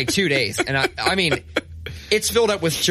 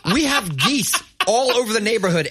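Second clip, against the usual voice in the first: real laughter, much higher; laughing; 8 semitones higher than usual. Real, not acted. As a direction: laugh through the words, high. Laughing about goose shit.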